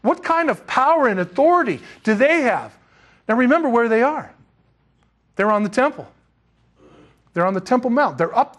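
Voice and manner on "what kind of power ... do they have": puzzled crowd. Retold or imitated. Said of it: "looking at Peter and John and saying".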